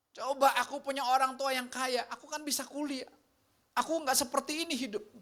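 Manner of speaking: lightly voiced resentful student; bitter student. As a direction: play the resentful young person, griping.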